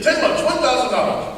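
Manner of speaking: a hint of a Russian car dealer closing the deal; Russian seller. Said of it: "I got this Russian guy".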